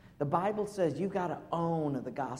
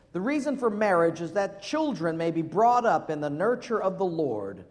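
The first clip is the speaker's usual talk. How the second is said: put-on English accent; 5 dB louder than usual. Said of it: "he says this in this English accent".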